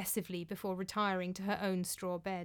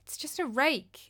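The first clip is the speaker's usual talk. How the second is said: insisting; 4 semitones higher than usual. Acted. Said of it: "insisted Thorgrima".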